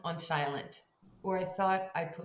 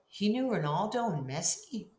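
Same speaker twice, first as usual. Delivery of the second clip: rising higher and louder in amazement; building to an excited, much higher, louder exclaim; excited disbelief; 5 semitones higher, 6 dB louder than usual. Retold or imitated. Recalling Kobe's famous friends, excited high exclaim.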